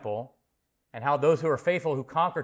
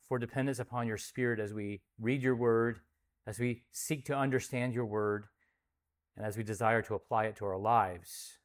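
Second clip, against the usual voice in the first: prayer. Acted. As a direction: pray humbly before God, settling to a hush. Leads congregation in prayer.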